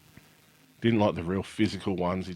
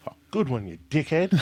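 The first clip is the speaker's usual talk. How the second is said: higher, laughing mock insult; son's cheeky jab; 8 semitones higher, 3 dB louder than usual. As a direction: tease through a laugh. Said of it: "and he'll look back and go".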